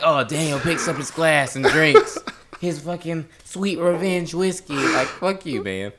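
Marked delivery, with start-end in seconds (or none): 0.0-4.7 a sing-song narrator voice, laughing; mocking narration. Mocking his co-host's play-by-play of his drinking, sing-song. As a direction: narrate him sarcastically like an audiobook.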